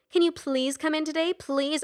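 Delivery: high mocking imitation of his plea; mocking singsong. A narrator's reading. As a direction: parrot him back mockingly. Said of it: "she chanted mockingly".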